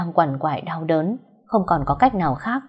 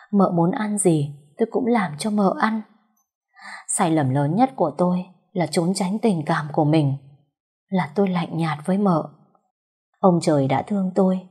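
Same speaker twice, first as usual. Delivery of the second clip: tender murmur. Acted. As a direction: murmur to her as she lies unconscious. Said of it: "ôm chặt vợ thủ thỉ".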